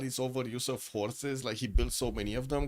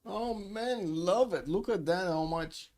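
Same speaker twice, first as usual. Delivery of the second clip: much higher, delighted exclaiming; excited; 7 semitones higher, slower than usual. Real, not acted. Caster sees rival game streams and gushes excitedly. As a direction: gush over the streamer numbers.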